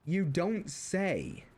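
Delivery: very slow, dry sarcasm; sarcastic. Retold or imitated. Thinking to myself about brother's complaint, slow sarcasm. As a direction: drag it out deadpan. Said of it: "sitting there thinking".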